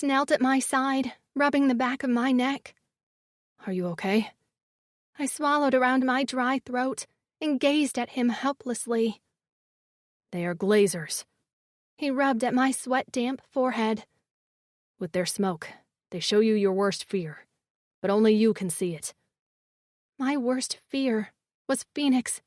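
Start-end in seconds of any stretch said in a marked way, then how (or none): 3.7-4.3 low male voice. A narrator's reading. 10.3-11.2 low male voice. A narrator's reading. 15.0-19.1 low male voice. A narrator's reading.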